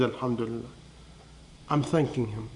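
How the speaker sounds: hushed and grateful, almost under the breath; soft thankful murmur. Retold or imitated. Injured woman thanks God, smiling.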